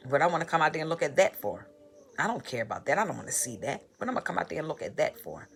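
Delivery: fast, scoffing fatherly brush-off; a hint of a dismissive father; mock dismissive dad. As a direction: toss it off like a dad who can't be bothered. Quoting dad's dismissive reply.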